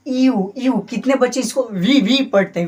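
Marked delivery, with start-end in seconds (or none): 1.6-2.7 वी said as a wrong "bhee", loud; wrong pronunciation demo. Shown as a demonstration. Teacher shows the mistaken way students say it. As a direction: show the common mistake on वी. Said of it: "बिल्कुल गलत करते हैं".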